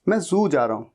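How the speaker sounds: जू said with a buzzing z as in zoo; teacher correcting to zoo; z sound. Shown as a demonstration. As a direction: model जू with a clear z. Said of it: "जू नहीं".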